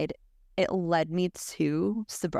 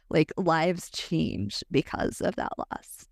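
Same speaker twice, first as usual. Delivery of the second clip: tearful whisper; slower than usual. Real, not acted. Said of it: "I'm crying my way through this whole episode".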